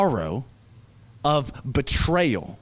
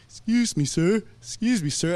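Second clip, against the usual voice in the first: lightly voiced old gentleman, higher pitched; kind old gentleman; 4 semitones higher than usual. Old man approaching a weeping stranger, kindly. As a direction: imitate a kindly older man, pitched up a little. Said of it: "this kind old gentleman comes behind me".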